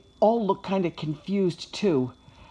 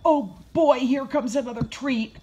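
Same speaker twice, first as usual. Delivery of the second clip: higher-pitched eager puppy, loud at the start; excited; 6 semitones higher, 3 dB louder than usual. A narrator's reading. Puppy as Josh reaches into the bag, excited. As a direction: pounce on it with anticipation. Puppy expects another treat.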